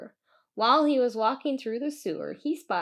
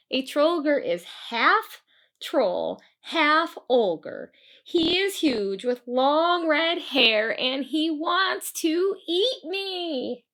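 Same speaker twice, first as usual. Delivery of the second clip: put-on frightened boy; 5 semitones higher, 4 dB louder, slower than usual. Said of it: "Christian explained".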